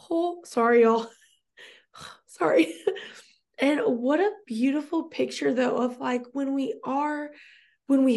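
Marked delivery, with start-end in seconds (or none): 0.1-2.8 teary laugh. Real, not acted. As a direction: laugh it off while choking up. Moved to tears mid-sentence.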